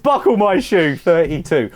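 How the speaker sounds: lively sing-song number call; bingo caller. Acted. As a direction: call it like a bingo hall host.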